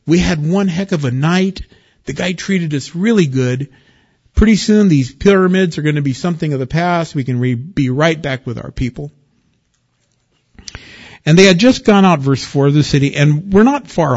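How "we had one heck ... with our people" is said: cheerful, a bit higher, rushing the middle line; joyful brothers. Retold or imitated. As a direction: voice the brothers' relief, lightly upbeat. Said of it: "They're joyful".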